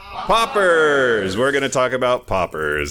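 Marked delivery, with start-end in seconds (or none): 0.1-1.4 crowd shouting together; many voices, slightly out of sync; ragged group unison. Real, not acted. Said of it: "we want the audience to all say it in unison".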